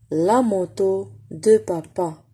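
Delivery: "La moto de papa" slowly again; slow repeat. Shown as a demonstration. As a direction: model the sentence slowly for the class. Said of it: "repeat for pupils".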